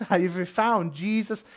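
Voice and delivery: imitated Midwestern woman's accent. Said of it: "she had that Midwestern accent".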